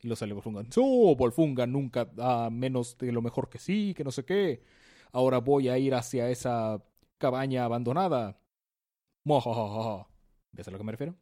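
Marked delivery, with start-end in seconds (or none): 0.8-8.4 lightly voiced boastful villain. Volfunga boasting. 9.2-10.1 hammy villain laugh; evil laugh. Retold or imitated.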